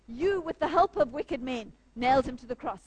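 bold accusation. Retold or imitated. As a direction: confront them boldly, quoting the preacher. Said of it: "he has the courage".

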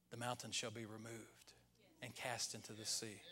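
low, hushed imitation of a whisper; soft, measured, voiced near-whisper; God. God answering a worry about the mountain, imitated whisper. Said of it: "And then he whispers".

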